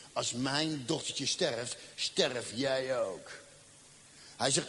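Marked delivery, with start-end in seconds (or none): 0.1-3.3 slow menacing threat. Retold or imitated. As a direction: drag out each word as a cold threat. Threatening the doctor.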